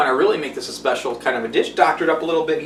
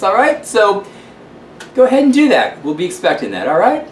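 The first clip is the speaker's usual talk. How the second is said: lightly voiced grand London hostess; a hint of a theatrical lady calling everyone darling; gushing host signing off with ta-ta; Lillian Lampshire. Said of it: "this is Lillian Lampshire from the luxurious lap of London".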